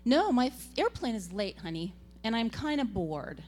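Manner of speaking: mild mock whine; lightly whiny mom on the phone; grown-up whiny. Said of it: "in my most grown-up whiny voice".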